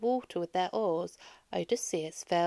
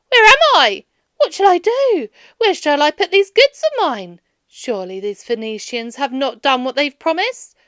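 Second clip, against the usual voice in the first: loud, high, panicked cries; lost and frightened, calling out; crying out in distress; 5 semitones higher, 11 dB louder than usual. A narrator's reading. Odysseus wakes in a strange land, crying out in alarm. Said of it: "and he cried out".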